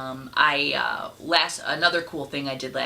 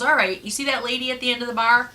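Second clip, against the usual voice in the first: threatening bear; 7 semitones higher, 4 dB louder, faster than usual. Acted. Bear threatening bartender in joke.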